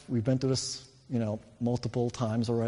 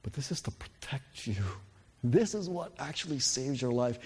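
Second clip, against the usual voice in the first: put-on gentle explaining to child; 2 semitones higher than usual. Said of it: "as I would want to explain to my child".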